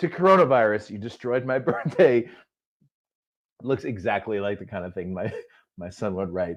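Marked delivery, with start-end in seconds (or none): 0.0-2.3 speech with laughter stifled underneath. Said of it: "I'm gonna try to do this without laughing".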